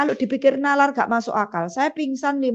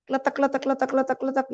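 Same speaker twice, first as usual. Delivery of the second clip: rattling stone sound; faster than usual. Retold or imitated. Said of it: "saya dengar suara batu".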